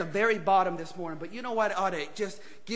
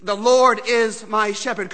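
slow and louder, proclaiming the verse; proclaimed; 8 dB louder, slower than usual. Shown as a demonstration. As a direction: declare it like a creed. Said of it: "Can you say this morning".

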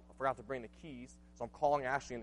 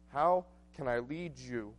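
quiet reflection; slower than usual. Acted. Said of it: "I remember thinking, praying that".

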